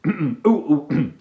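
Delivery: normal talking voice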